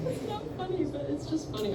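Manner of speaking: laughing. Real, not acted. Comic cracking up at her own story, high soft laugh. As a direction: laugh through the words helplessly.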